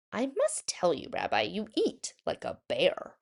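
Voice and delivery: Bubba Braina. Acted. Old baker teases.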